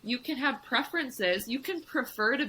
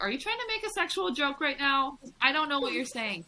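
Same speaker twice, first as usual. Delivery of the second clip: higher-pitched puzzled protest; mock bewildered questioning, pitched up; retold confusion; 6 semitones higher than usual. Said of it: "at first I wasn't, like, clicking".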